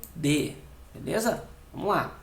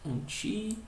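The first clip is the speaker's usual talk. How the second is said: syllable by syllable; 3 semitones higher, 9 dB quieter than usual. Shown as a demonstration. Teacher dividing the word for students, "Antídoto" in syllables. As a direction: say "Antídoto" softly in broken-up syllables, as if writing it. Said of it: "fazer a divisão silábica da palavra".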